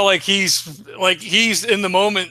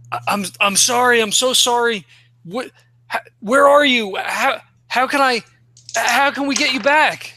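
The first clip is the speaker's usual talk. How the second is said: desperate pleading; 5 semitones higher than usual. Acted. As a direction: beg her in a panic to come back. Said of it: "and he's like".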